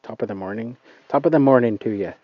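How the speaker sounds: put-on quick, tentative stab at an Irish accent; first shaky go at an Irish accent. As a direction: try out a hesitant Irish brogue, a bit rushed. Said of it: "I don't know if that's even a good Irish accent".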